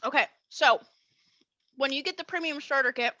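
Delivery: talking around ice in mouth. Real, not acted. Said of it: "I have ice in my mouth, sorry".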